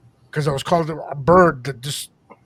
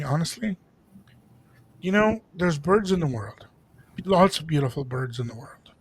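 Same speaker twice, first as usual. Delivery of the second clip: grandfather's lecture. Retold or imitated. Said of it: "he would just look at me and say".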